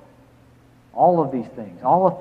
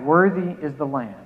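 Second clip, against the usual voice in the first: louder, swelling proclamation of Worthy; crying out; 6 dB louder than usual. Shown as a demonstration. Pastor voicing myriads of angels crying out, louder proclamation. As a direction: call it out as the praise spreads through heaven. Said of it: "they cry out".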